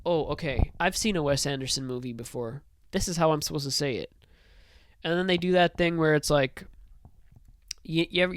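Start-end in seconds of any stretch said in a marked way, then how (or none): 0.0-4.1 mock actor talking to himself. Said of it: "it's more like".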